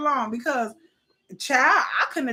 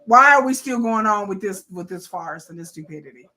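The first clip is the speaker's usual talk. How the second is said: exasperated quote; 4 semitones lower, 8 dB louder than usual. Retold or imitated. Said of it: "Blaine looking at her just like".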